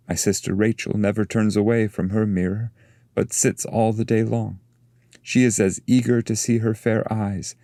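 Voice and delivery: a graceful maiden introducing herself; Leah's voice. Acted.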